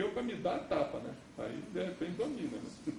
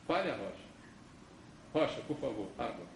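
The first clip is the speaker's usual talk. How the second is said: gentle request; 6 semitones lower, 7 dB quieter, faster than usual. Pretend. Preacher voicing the gentle command.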